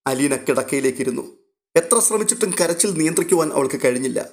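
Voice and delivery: ordinary delivery, nothing marked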